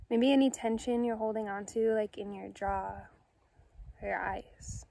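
calm, unhurried meditation guide with long pauses; soothing, measured guided-meditation delivery. Acted. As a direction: gently guide listeners inward, leaving space after each phrase.

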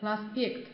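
Проспект with stress on the е. Shown as a demonstration. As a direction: put the weight on -пект in Проспект. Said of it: "重音在个这个哎上面".

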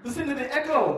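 high, loud echo-testing call. Acted. Comic testing the echo under a golf umbrella, calling out. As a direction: call out as into a cavern.

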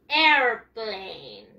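"Airplane" slowly split into two long parts, "air-plane"; "Airplane" stretched, falling on "plane"; pronunciation model. Shown as a demonstration. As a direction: draw out both syllables of "Airplane" for learners. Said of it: "Escuchen muy bien".

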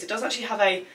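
winded, breathless talking; out of breath. Real, not acted. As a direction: speak short of breath. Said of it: "I'm out of breath now".

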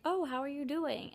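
lightly mimicked polite small talk; imitated greeting. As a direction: mimic a polite how-are-you, slowly. Acting out someone's polite greeting.

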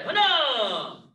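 shouted drill count; sharp martial arts commands. Real, not acted. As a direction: bark the count to the class. Instructor counting kicks in class.

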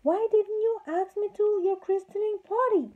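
high, loud indignant cry; loud, high chorus of angry fairies; crying out together. A narrator's reading. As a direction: demand it loudly as a crowd of offended fairies. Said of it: "they all cried with one voice".

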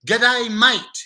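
loud mock-Aussie greeting; playful, broad Australian accent. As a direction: hail them in a put-on Australian accent. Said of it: "Kita boleh buat semua accent".

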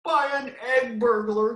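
high, slow clucking hen. A narrator's reading. Small chicken blaming a burglar, clucking. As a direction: cluck the accusation. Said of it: "clucked the small chicken".

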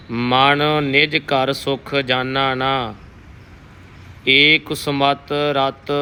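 slow, measured Gurbani reading; shabad recitation. Teacher reciting Kabir's shabad for the sangat, slow and careful. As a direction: read each word deliberately and reverently.

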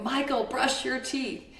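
a mother ordering her son, retold; mock yell at son. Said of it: "I'm yelling at him".

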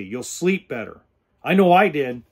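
ordinary talk, nothing marked

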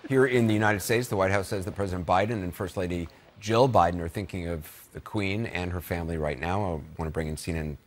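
steady anchor news delivery; news read. Acted. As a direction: read the update like a live broadcast anchor. Anchor news read after break.

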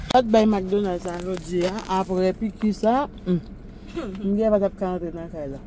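very soft, almost whispered; hushed. Real, not acted. Parent whispering to sleepy toddler, hushed. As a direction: hush it right down.

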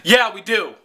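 dismissive cashier cutting in; imitated curt interruption. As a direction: mimic a rude, brusque reply. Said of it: "She cuts me off".

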